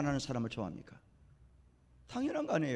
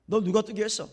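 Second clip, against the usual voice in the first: louder, acted blunt demand; confrontational grilling; 3 semitones higher, 5 dB louder than usual. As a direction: imitate an accuser questioning the man. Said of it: "막 따지는 거예요".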